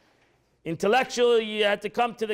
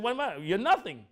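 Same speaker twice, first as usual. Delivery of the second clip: mock yell; 3 semitones higher than usual. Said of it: "He started screaming".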